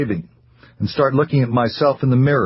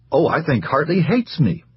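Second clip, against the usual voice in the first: light, smiling; 5 semitones higher than usual. Acted. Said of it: "with her gay little smile".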